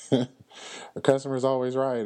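put-on slow, high, sneering take on the old saying; mocking sarcasm. Ridiculing the saying that customers are always right, in a slow, high sneer. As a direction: drag it out like a dumb cliché.

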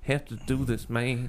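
soft, strained, holding it together; quiet, effortful imitation; Terrence Howard. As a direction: say it as if barely keeping composure. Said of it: "he sounds like he's, like, trying to keep it together".

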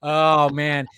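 ordinary talk, nothing marked

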